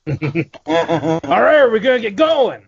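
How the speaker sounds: crank up the energy in mock enthusiasm; pumped up. Host answers a call to get pumped up, hyped. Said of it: "You need to get pumped up".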